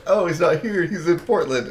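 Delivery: lightly acted surprise; mock realization. Voicing everybody in Salt Lake.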